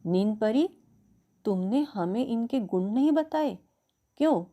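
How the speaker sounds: mildly angry, accusing; angry demand. Acted. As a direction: demand answers from the sleep fairy. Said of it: "रात रानी क्रोध से कहती है". (हल्के क्रोध में सवाल करते हुए)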